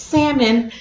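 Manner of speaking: "salmon" as SAM-un, no L; silent L. Shown as a demonstration. Wife repeating her correction, "salmon" with silent L. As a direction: pointedly say "salmon" with the L left out. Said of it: "not supposed to say the L".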